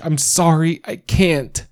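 high, sobbing "I'm sorry"; tearful apology. Acted. Mother to her husband, high crying apology. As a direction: apologize through the tears.

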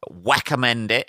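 light imitation with the R said as W; Jonathan Ross. Recommending a book, light Jonathan Ross accent. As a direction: say "recommend" as "wecommend", mock presenter style. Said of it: "in a Jonathan Ross accent".

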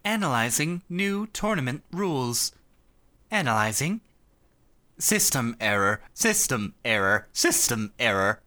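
glitching malfunctioning robot voice; rusty robot. Retold or imitated. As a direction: sputter like a broken machine. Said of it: "the robot that".

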